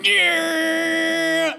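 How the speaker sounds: drawn-out, high, loud metal yell; impression of a metal singer. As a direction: belt out one long rock-frontman yeah. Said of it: that it's the speaker's impression of a metal singer.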